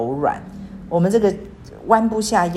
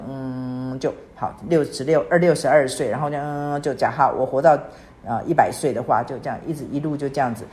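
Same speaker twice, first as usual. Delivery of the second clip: lower, level drone with hummed fillers; bland, aimless monotone; 3 semitones lower than usual. Acted. Speaker mimicking a life without longing to the congregation, bland drone. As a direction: drone along like a life as plain as boiled water. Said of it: "就这样像白开水一样".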